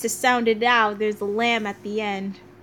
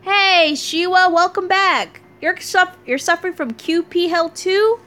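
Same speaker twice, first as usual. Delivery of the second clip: bright, higher and louder hello; cheerful friend greeting; 6 semitones higher, 5 dB louder than usual. Acted. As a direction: call out a happy welcome back. Voicing a cheerful character.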